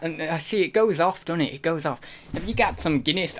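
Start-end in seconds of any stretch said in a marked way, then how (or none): 2.3-3.4 lightly put-on Irish accent; stereotyped Irish accent. Shown as a demonstration. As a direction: try a stock Irish accent. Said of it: "doing all the stereotypes".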